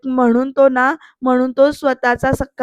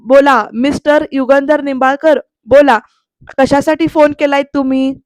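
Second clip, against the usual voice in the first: curt challenge; 4 dB louder than usual. Retold or imitated. Son coldly answers estranged father's call.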